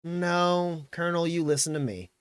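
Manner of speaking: relaxed sheriff's contradiction; casual. Acted. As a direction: cut in casually from the sidelines. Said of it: "kinda casually".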